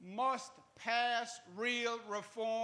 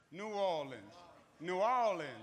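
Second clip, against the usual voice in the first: mock southern accent; 4 dB louder than usual. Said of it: "How'd I do?".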